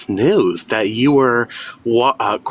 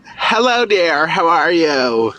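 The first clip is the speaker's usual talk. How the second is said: slightly toned-down holler; still yelling; 2 semitones higher, slower than usual. Real, not acted. Caller retries the greeting for the host, still yelling. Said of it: "That's still yelling, Doctor Phil".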